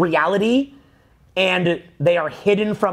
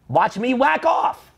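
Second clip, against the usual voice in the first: laughing mock; 4 semitones higher, slower than usual. Mocking careless phone user.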